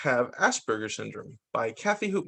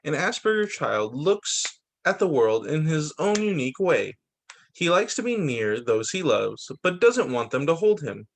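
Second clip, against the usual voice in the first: measured read-aloud storytelling; picture-book narration. A narrator's reading. Reader presenting the Asperger child, picture-book narration. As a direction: read it out with careful phrase breaks.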